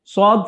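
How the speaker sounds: heavy emphatic s in "সদ"; thick emphatic sad. Shown as a demonstration. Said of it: "একটু মোটা করে উচ্চারিত হয়". (একটু মোটা করে "সদ")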